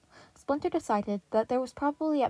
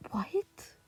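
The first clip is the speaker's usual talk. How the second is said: breathless shocked whisper; stunned; 9 semitones higher, 5 dB quieter than usual. A narrator's reading. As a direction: barely get the word out. Draxum stunned.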